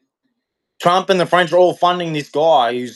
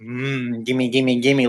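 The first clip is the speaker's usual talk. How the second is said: greedy gimme; 4 semitones lower, much slower than usual. Retold or imitated. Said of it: "with their hands going".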